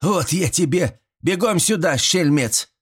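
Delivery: high mock-threat, stress on вот; granny threatening. Grandmother playfully threatens Borka, high. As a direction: hurry the rascal over.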